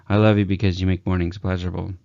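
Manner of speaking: rushed and flat, as if you don't mean it; sarcastic. Shown as a demonstration. Coach showing how it sounds sarcastic when rushed. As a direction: toss it off fast and insincere. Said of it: "they're gonna think you're sarcastic".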